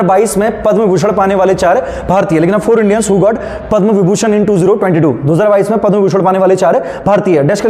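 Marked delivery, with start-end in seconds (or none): 2.6-5.1 slow, word by word dictation; dictating. Shown as a demonstration. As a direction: pace it for students to write. (धीरे-धीरे बोलकर लिखवाना)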